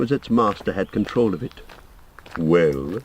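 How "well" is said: gentle question. A narrator's reading. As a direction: ask it gently, as if hurt to be disturbed. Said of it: "it said now with gentle question".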